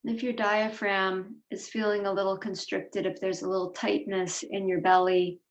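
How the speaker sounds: unhurried meditation voice with long pauses between phrases; guided meditation. Real, not acted. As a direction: guide them gently inward, leaving space after each instruction.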